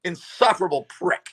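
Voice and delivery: shouted through a laugh. Retold or imitated. Taunting the headliner in front of the crowd, laughing shout. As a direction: crow it at the audience. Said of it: "I said".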